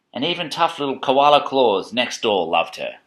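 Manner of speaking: measured picture-book narration; reading to children. A narrator's reading.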